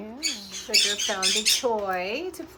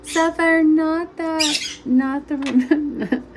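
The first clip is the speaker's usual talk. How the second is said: raised voice; 6 semitones higher, 9 dB louder, slower than usual. Real, not acted. Bird pulling rubber bands from hair.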